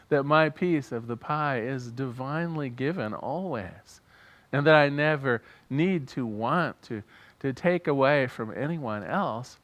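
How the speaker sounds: measured, earnest congregational prayer; spoken prayer. Real, not acted. Minister leading the congregation in gratitude, prayerful. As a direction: pray aloud deliberately, phrase by phrase.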